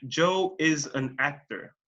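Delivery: slow, measured statement, "actor" going down at the end; falling statement tune. Shown as a demonstration. English teacher models a sentence ending, falling tone on "actor". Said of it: "se va para abajo".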